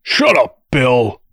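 sudden high, loud snarl; angry snarl. A narrator's reading. Prisoner snaps at the heckler from his cell, snarling. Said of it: "Darl snarled".

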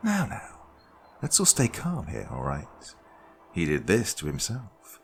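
lightly voiced, sugary calm host; a hint of a smug hostess calming a captive; Judy's voice. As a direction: soothe them falsely, in control. Narrator voices Judy.

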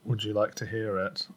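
flat, even robot voice. Acted. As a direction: drone it like a machine. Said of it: "why are you going back to this robotic voice again".

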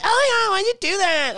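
high, mocking put-on protest; mock indignant. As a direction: imitate a spooked guest complaining. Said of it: "some people are like".

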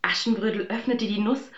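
plain reading voice

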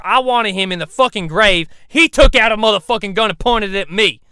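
loud defensive rant; angry rant. Acted. Dog defending the shooting to the crew, angry ranting. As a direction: justify the killing, heated.

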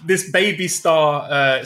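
slow talk around a mouthful; chewing while talking. Real, not acted. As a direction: chew while you explain. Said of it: "trying to eat some crisps".

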